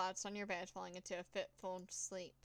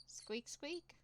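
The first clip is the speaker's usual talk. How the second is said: squeaky high mouse voice, softer; high mouse squeak; 6 semitones higher, 4 dB quieter than usual. Acted. Grabbing the mouse in the alley, a high frightened squeak.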